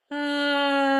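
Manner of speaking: loud, wide-open ah released at once; big open ah. Shown as a demonstration. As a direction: let out a big, full ah. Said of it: "with a big ah sound".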